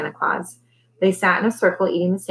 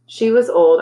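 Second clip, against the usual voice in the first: higher, stressed mournful sigh; 5 semitones higher, 6 dB louder than usual. A narrator's reading. Boy remembers his dead dog, sighing. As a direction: sigh it out with some weight. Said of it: "R B sighed".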